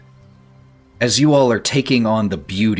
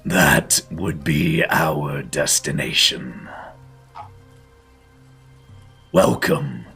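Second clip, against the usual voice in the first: game master scene narration; 2 semitones lower, 4 dB quieter than usual. A narrator's reading. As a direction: paint the landscape gently. GM describes the scene.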